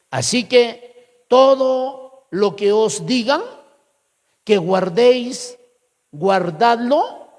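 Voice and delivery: slow, deliberate Bible reading; scripture reading. Acted. Preacher reading Jesus' words to the congregation, slow and measured. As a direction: read the verse out slowly, phrase by phrase.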